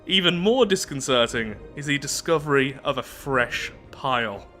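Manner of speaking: measured read-aloud narrator voice; story narration. Acted. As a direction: read the lore out evenly, like an audiobook. Reads game event text.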